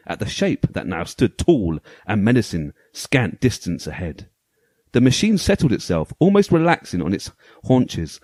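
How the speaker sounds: dramatic storybook narration; story voice. Pretend. Host reading the game manual's story to co-hosts, story voice. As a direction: read it out like a pulp sci-fi tale, measured and weighty. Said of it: "I'm gonna put my, my story voice on".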